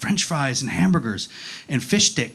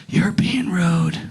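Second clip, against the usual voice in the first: slow, whispered retort; imitating a girl whispering a rebuke; under her breath; much slower than usual. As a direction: mutter it so only he hears. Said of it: "she said under her breath".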